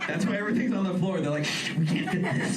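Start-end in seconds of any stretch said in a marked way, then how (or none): 1.4-2.6 unvoiced slow shush; mock whisper of a store clerk; hushed staffer. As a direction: hush it like a secret. Ross staff hushing.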